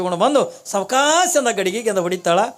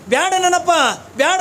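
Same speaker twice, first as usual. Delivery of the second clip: pleading refusal; 10 semitones higher, 4 dB louder than usual. Acted. Wife refuses the holy man.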